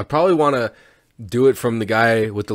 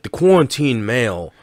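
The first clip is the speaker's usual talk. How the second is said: nature documentary narrator. Pretend. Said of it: "I'll, like, be like".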